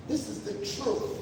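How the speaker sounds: soft, almost whispered truth; hushed emphasis. Shown as a demonstration. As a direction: drop to a near whisper. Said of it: "because this is the truth".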